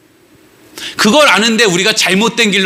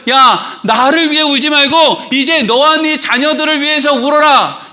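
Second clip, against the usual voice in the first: Jesus; 7 semitones higher than usual. Acted. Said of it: "예수님이 뭐라 그랬다고요".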